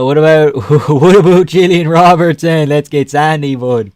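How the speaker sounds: hammed-up, botched Canadian accent; attempted Canadian accent. Streamer fumbling a Canadian impression, mock Canadian accent. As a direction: try a Canadian accent and miss. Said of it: "That's not Canadian".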